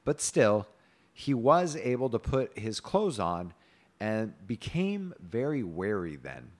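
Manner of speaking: measured storybook reading; story narration. A narrator's reading. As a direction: read the tale aloud with old-fashioned cadence.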